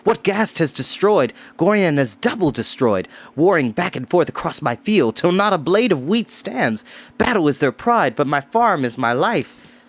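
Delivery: ruined farmer's bitter complaint; bitter retort. Acted. Farmer to Tarn over trampled crops, bitter. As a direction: fling each line back at them. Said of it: "Adan flung back".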